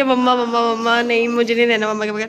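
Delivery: plain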